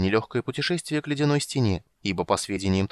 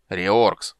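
louder, snapping the name; irritated; 6 dB louder than usual. Acted. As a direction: repeat it with open annoyance. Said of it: "раздражённо повторил гном".

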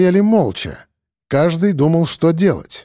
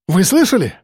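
high, pained exclamation; pained cry; 5 semitones higher than usual. A narrator's reading. Policeman seizes on the offer, pained cry. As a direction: cry out as if in pain. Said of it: "болезненно выкрикнул Чинчаков".

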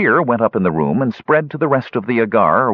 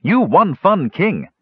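giggling; 10 semitones higher, slower than usual. Acted. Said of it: "Numskull giggled".

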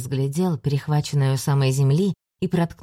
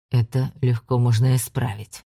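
low menacing hiss of a demon; nightmare spirit; 5 semitones lower than usual. Acted. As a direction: loom over him and hiss. Ander threatens.

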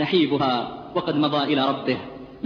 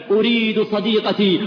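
mournful plea; 5 semitones higher, 5 dB louder, slower than usual. Retold or imitated. Dying man's plea.

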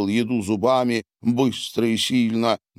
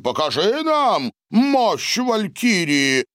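rousing; 10 semitones higher than usual. A narrator's reading. Boris bangs fist, urging.

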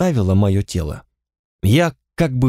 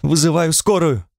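higher, urgent cry for help; a woman shouts in alarm after the crash, higher; sharp cry; 6 semitones higher than usual. Acted. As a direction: cry out she's calling an ambulance. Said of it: "Женщина вскрикнула".

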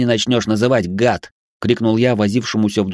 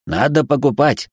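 pushy robot, higher; insistent robot; 6 semitones higher than usual. Acted. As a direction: keep pushing, robot voice. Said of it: "настойчиво проговорил робот".

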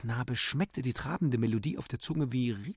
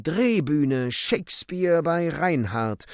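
loud, raised-pitch theatrical cry; shouting actress; 5 semitones higher, 7 dB louder, slower than usual. A narrator's reading. The actress clutches her handbag mid-flight, crying out. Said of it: "Die Schauspielerin schrie".

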